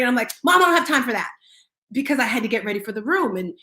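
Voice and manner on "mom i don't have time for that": louder, higher, curt retort to mom; impatient brush-off. Retold or imitated. Daughter rushing to get ready, brushing off her mom impatiently. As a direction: snap it off, no time to spare.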